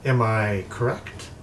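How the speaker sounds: teasing sorceress with high, swooping pitch; imperious crystal-ball mistress. Acted. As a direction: toy with them as a scheming enchantress. Game master plays crystal-ball woman.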